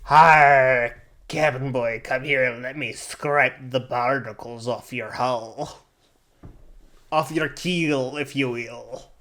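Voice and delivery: grand rhythmic bard. Pretend. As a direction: declaim it like a Shakespearean bard. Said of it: "I'm gonna pull out the Bard voice".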